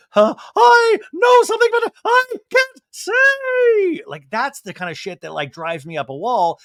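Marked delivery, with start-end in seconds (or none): 0.1-4.0 much higher, louder, teasing singsong voice; coy secret-keeper. Retold or imitated. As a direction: drag out the tease like a smug gossip. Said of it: "it's always like".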